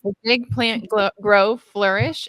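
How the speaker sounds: bright, delighted burst; excited. Real, not acted. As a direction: gush over it with joy. Delighted reaction.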